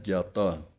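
ਜਾਤਾ held firm and tight, falling; teacher's tight ਜਾਤਾ. Shown as a demonstration. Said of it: "ਥੋੜ੍ਹਾ ਜਿਹਾ ਕੱਸ ਕੇ ਬੋਲਣਾ ਹੈ".

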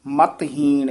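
ਮਤਹੀਣ set apart, then a stop; pause after ਮਤਹੀਣ. Shown as a demonstration. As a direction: finish ਮਤਹੀਣ and rest. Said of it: "ਇੱਥੇ ਵਿਸ਼ਰਾਮ".

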